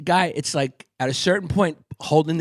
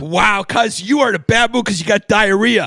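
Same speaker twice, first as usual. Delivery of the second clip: teasing shout; 4 semitones higher, 4 dB louder than usual. Acted.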